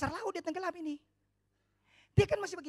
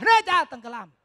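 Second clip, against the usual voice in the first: sinking fright; 17 dB louder than usual. Retold or imitated. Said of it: "Petrus ngomong apa?".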